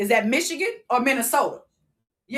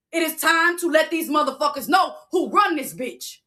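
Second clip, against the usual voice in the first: half-shouted, fired-up declaration; rising shout; 4 semitones higher than usual. Real, not acted. Rallying followers to the streets, pitched up into a shout.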